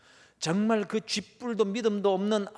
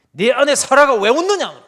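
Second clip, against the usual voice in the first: booming, higher angry question; angry rebuke; 7 semitones higher, 16 dB louder than usual. Acted. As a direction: thunder it at her like an angry God. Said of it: "하나님께서 진노하십니다". (진노하신 하나님의 호통)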